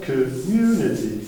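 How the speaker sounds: community said slowly with the weight on MU; stress on MU. Shown as a demonstration. Teacher demonstrating word stress to the class, stressing MU. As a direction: lean on the MU of community.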